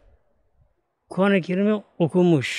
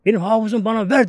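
higher, slow calling plea; mother's cry; 4 semitones higher than usual. Retold or imitated. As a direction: call across the water, drawn out. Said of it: "Üst yer bağırıyor".

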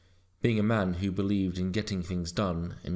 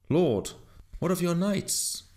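high, raised plea to the king; loud appeal; 10 semitones higher than usual. A narrator's reading. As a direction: call out to your lord for help. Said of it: "said to him as loudly".

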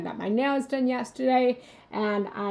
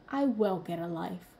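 lower, quiet sassy retort; sassy comeback; 4 semitones lower, 4 dB quieter than usual. Retold or imitated. To her partner after he said get a life, a sassy retort. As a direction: toss it back with a little sass. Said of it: "my inner child's little sassy remark".

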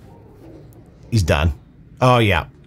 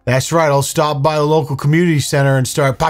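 lightly mocked macho threat, pitched up; alpha older brother; 4 semitones higher than usual. Mocking a brother threatening murders, mock-tough. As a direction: play up the big brother's menace, mockingly. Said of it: "alpha older brother Facebook memes".

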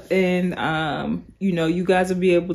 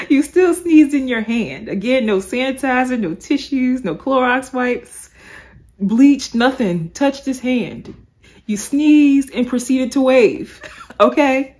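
sassy scolding; 4 semitones higher, 4 dB louder than usual. Retold or imitated. Vlogger lectures the church lady about germs, sassy.

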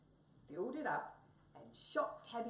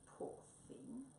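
pitying mouse; 8 semitones higher, 7 dB quieter than usual. Acted. Mouse character voice.

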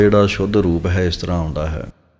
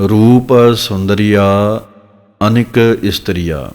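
slow recitation; slower than usual. Shown as a demonstration. Teacher recites scripture line slowly.

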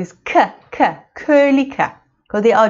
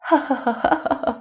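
demo laugh; 7 dB quieter than usual. Shown as a demonstration. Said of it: "Can you laugh for me?".

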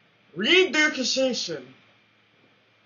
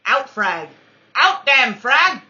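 mock-dramatic shout; 4 semitones higher, 12 dB louder, slower than usual. Real, not acted. Yelling at the enemy's outplay.

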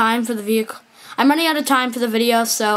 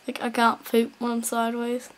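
hushed unvoiced repeat of poop when I'm sideways; quiet whispered aside; 6 dB quieter than usual. Real, not acted. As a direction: whisper the line again to yourself.

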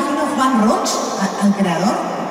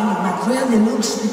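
each syllable dragged out, very slow; timid tourist ordering at a counter; slow nervous order; much slower than usual. Retold or imitated. Nervous first order in London.

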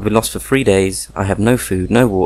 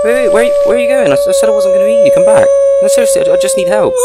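much higher, loud desperate yell; shouting after them; 8 dB louder, much faster than usual. Acted. Stranger shouts after the fleeing local to come back, desperate high yell. Calling after someone running away.

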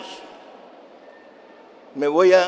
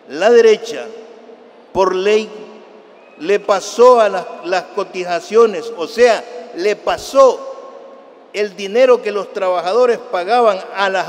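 louder, punching each phrase at the crowd; loud emphatic oratory; 4 dB louder than usual. Real, not acted. Orator to the crowd, denouncing the right, loud and emphatic. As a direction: hammer it home, accusing the right. Rally speech attacking the right.

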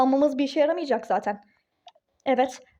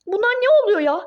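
exasperated cry; 4 semitones higher, 5 dB louder than usual. Acted. Duru exasperated at events.

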